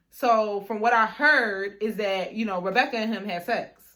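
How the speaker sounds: retold reveal, stretched opening words; measured gossip reveal. Friend passes on the rumor to her, measured reveal. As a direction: break the gossip in one connected run.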